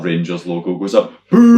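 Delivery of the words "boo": high, loud booing; crowd boo. Retold or imitated. Friend imitates the crowd booing the logo, loud. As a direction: boo like a whole rival crowd.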